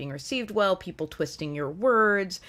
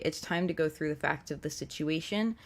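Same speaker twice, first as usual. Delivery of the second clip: calm statement; 5 dB quieter than usual. Shown as a demonstration. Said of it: "when we just calmly say".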